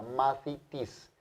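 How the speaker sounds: Mathitis slowly, th clear, final s held; slow demo. Shown as a demonstration. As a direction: drawl Mathitis out for the class. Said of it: "sonido como T H". (Mathitis muy despacio, alargando la s final)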